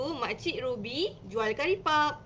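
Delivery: slow, clear read of the short sentence; slow shortened reading. Shown as a demonstration. Teacher shows parents a simpler line, slow. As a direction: read it slowly for a small child. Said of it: "kita pendekkan ayat tu".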